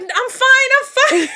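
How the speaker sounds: giggling, brushing it off; mock reassurance through laughter; laughing through it. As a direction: laugh while insisting you're fine. Laughing while voicing herself.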